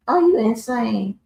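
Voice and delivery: slow, high-pitched disbelief; slow incredulous are you insane. Real, not acted. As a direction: ask as if they've truly lost it. Indignant rhetorical question.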